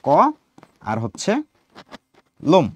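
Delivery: ক and লোম said as two separate beats; syllable-by-syllable demonstration of ক and লোম; split into syllables. Shown as a demonstration. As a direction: break the word into ক, pause, then লোম. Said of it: "এই শব্দটাকে দুইবারে উচ্চারণ করছো".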